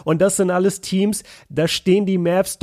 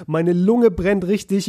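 sick with cough. Real, not acted. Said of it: "bei jedem zweiten Satz husten".

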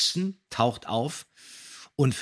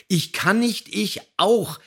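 higher, louder mock panic as if slipping; re-enacted panicked cry; 10 semitones higher, 6 dB louder, slower than usual. Co-host replaying his radio play line, mock panicked shout. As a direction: cry it out like sliding down a cliff. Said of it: "Und dann sage ich oder Bob".

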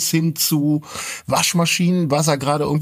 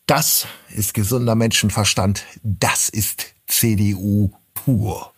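quoting a politician. Retold or imitated. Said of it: "mit dem geilen Satz".

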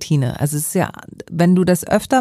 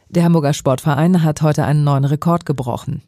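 steady, measured news read with clear emphasis; news anchor delivery; 3 dB louder than usual. Shown as a demonstration. Speech coach showing host a proper news read. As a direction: read it like a radio headline. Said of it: "du musst dann eine andere Haltung einnehmen".

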